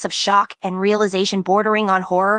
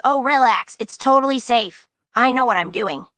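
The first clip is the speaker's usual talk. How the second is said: breezy overconfident reassurance; cocky; 4 semitones higher than usual. Retold or imitated. Narrator mimicking Jax brushing off worry, cocky. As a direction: brush off the worry, smug and easy. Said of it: "He says it all cocky".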